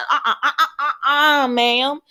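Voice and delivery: rapid string of high uh-uhs; warning interjection. Real, not acted. Breaks off to stop a child.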